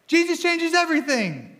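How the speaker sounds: "Jesus" shouted high and loud, falling through "changes everything"; yelled from the rooftops. Shown as a demonstration. Preacher to church, shouting the slogan from the rooftops. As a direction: proclaim it like you're yelling from a rooftop. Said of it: "if we're gonna yell that from the rooftops".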